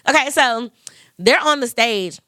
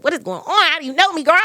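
bewildered retelling; 4 semitones higher, faster than usual. Retold or imitated.

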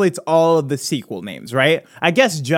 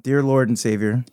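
mock prayer. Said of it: "let's bow our heads in prayer".

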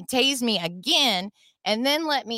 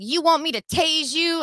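high-pitched mock threat; threatening cop; 7 semitones higher than usual. Cop threatens driver with taser, mock menacing. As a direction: imitate an officer daring her.

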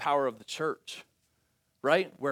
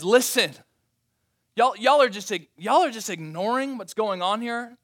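Paul rebuking; 4 semitones higher, 5 dB louder than usual. Acted. Preacher voicing Paul's rebuke.

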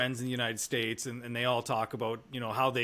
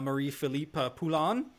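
put-on French accent; 2 semitones higher than usual. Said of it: "That's my French accent".

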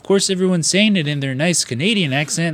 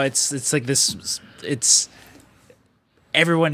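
normal talking voice

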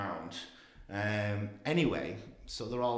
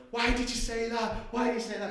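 very high, louder mock protest; imitated shocked outcry; 13 semitones higher, 6 dB louder than usual. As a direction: mimic people crying out in accusation. Acts out group confronting him.

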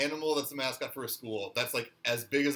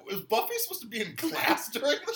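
higher, laughing through the question; can't believe it, laugh it out; laughing disbelief; 11 semitones higher than usual. Real, not acted. Host questioning the show's logic, laughing. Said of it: "I'm like".

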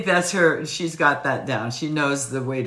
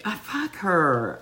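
ordinary delivery

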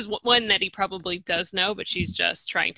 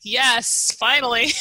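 laughing cheer, louder and higher; 4 semitones higher, 4 dB louder than usual. Retold or imitated. Fan cheering as Dany strikes him, laughing cheer. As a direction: cheer her on at last. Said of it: "I'm like".

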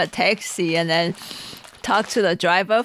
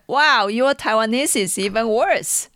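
imitated amazed driver; 4 semitones higher than usual. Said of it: "And then he's like".

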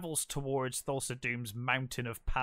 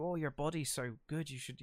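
softer, creepy priest murmur; 7 dB quieter than usual. Retold or imitated. Telling a friend about the creepy priest, in a soft leering murmur.

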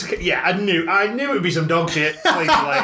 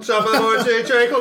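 mock Cockney accent; 4 semitones higher, faster than usual. Cockney accent, joining in the podcast banter. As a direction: have a go at the Cockney greeting yourself. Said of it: "Right, I'm so Cockney".

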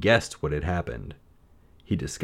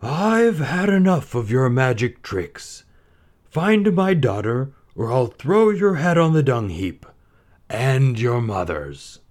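higher, louder, slow angry king; furious Sultan; 6 semitones higher, 5 dB louder, slower than usual. A narrator's reading. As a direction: threaten like an enraged ruler. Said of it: "the Sultan's anger was even greater".

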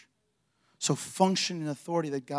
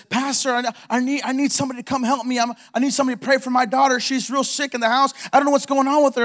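mock crying mother; 9 semitones higher, 8 dB louder than usual. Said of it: "She's crying. She's weeping".

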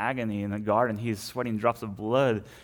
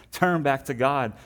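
a slow, higher, pleading call; prophet's plea; 4 semitones higher, 4 dB louder than usual. Retold or imitated. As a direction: stretch out the plea like a prophet calling the people back.

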